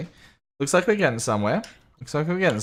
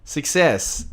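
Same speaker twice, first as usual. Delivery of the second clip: excited; 7 semitones higher, 7 dB louder, much slower than usual. Real, not acted. Stream finally working.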